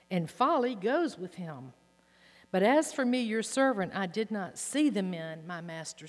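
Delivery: loud, pleading scripture reading; impassioned plea. Acted. Preacher reading Abigail begging David for mercy, loud and pleading. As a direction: cry out Abigail's plea to the king.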